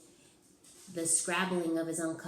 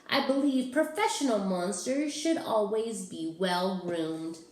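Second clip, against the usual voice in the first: Ralph's voice; 2 semitones higher, 4 dB louder than usual. Acted. Ralph explains.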